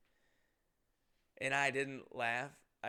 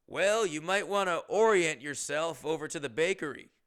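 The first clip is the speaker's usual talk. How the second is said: loud quoted pun; 2 semitones higher, 5 dB louder than usual. Retold or imitated. Quotes the bagger's pun to customer.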